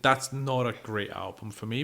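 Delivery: ordinary talk, nothing marked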